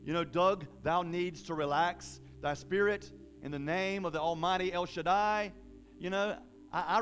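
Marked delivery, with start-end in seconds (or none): 0.2-5.5 slightly stately, slowed scripture voice; mock King James reading. Preacher mocking how he doesn't read scripture, mock-solemn. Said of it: "I don't read it as".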